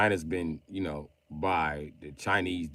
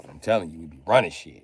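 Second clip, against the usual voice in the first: mock Chinese accent; 2 semitones lower, 5 dB louder than usual. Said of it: "reading everything Lee said in Chinese accent".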